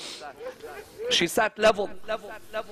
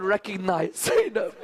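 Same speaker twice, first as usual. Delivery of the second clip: choked up. Real, not acted. Preacher laments Zainab's changed face, choked up. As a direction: voice cracking into a sob.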